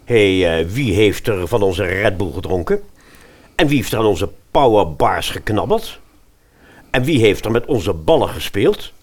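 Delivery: loud demanding questions; indignant calls. Acted. The volleyballers call out downstairs, indignant and loud. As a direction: call out who did it, indignant. Volleyballers find things used.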